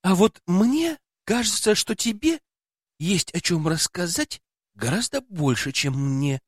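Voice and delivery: gently reproachful remark. Acted. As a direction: chide him a little. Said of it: "с укором заметила я".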